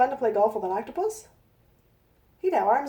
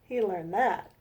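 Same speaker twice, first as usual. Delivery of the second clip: storybook reading. A narrator's reading. Reads her rhyming picture book.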